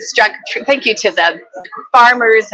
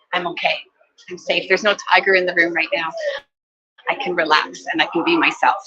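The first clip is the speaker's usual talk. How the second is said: softer, calming words to yourself; soft self-reassurance; 5 dB quieter than usual. Shown as a demonstration. Soothing your own nervous system, quietly reassuring. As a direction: tell your nervous system gently that you are safe. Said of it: "we tell our nervous system".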